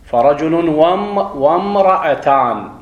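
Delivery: slow, careful وامرأتان with the hamza dropped, run into the word before; slowly showing the class how the hamza disappears; joined hamza. Shown as a demonstration. A teacher slowing down to show the class a joined hamza. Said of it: "لم تقرأ".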